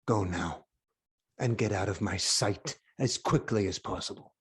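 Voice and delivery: king coldly dismissing the herald; cold low dismissal. Acted. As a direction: drop low and soft, icy.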